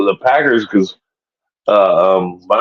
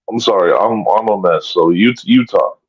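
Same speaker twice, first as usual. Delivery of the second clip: after crying; 4 semitones lower than usual. Real, not acted. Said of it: "I sound like a freaking wet mess".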